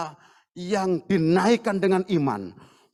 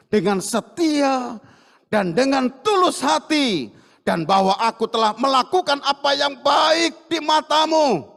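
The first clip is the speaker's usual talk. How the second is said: earnest plea; 4 semitones higher, 4 dB louder than usual. Acted. King's earnest prayer.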